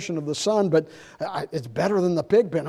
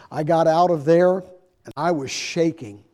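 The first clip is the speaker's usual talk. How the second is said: ordinary delivery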